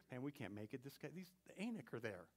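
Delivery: soft muttered fear; a timid voice of defeat; whispering doubter. Acted. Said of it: "the guy whispering in my ear".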